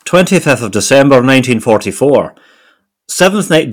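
put-on genteel Edinburgh accent; Morningside Edinburgh accent. Co-host reading Royal Scots diary, Morningside Edinburgh accent. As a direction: attempt your best Morningside Edinburgh voice. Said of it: "my best Morningside Edinburgh accent".

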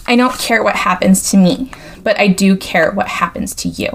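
put-on slight valley girl accent; a touch of valley girl. Shown as a demonstration. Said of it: "ever so slightly a little bit of a Valley Girl accent".

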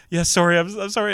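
high, hurried mock-timid apology; scared puppy dog. Retelling a scared passenger's apology, like a puppy dog. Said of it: "little scared puppy dog was like".

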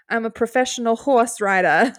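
imitated heavy Boston accent; thick Boston accent. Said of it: "his Boston accent is so thick".

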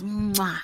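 soft smacking kiss; kiss sound. Shown as a demonstration. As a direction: blow a quick kiss. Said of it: "We should have some, like, kiss sounds".

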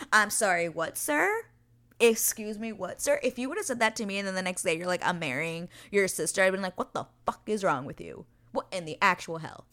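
heated indignation. Acted. Fan telling off Anthony over the sister proposal, heated. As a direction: call him out in mock outrage. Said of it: "Sorry, I got heated".

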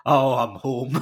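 loud, relieved "oh, I'm home"; relieved sigh of home. Pretend. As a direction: sink into relief. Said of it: "you're like".

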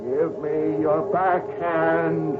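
slow, rising demonic shout; devil shouting. Acted. Devil in her dream shouting at the tennis player, slow and menacing. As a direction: drag it out like a devil taunting. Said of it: "as he shouts".

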